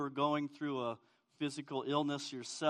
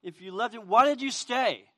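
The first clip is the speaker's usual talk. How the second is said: higher, louder, distraught sisters questioning Jesus; Mary and Martha pleading; 6 semitones higher, 9 dB louder than usual. Retold or imitated. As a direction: voice the grieving sisters' frustrated plea. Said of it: "I could hear Mary and Martha".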